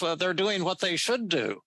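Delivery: a mild imitation of a New Yorker's calm reasoning; "they're doing what they should do" in a hint of a New York accent; Albert Ellis New York twang. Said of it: "this is the way he talked".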